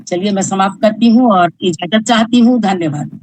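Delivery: ordinary talk, nothing marked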